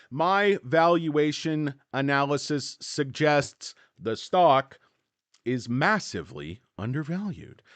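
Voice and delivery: slow, halting first read. Shown as a demonstration. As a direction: read it slowly, word by word. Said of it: "Let me reread that sentence".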